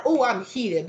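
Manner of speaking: light, breezy "Oh, I'm heated" with a lifted oh; mock casual heated. Shown as a demonstration. Reader mocking the casual sense of being heated, breezy. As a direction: toss off "Oh, I'm heated" as a throwaway. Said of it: "not like".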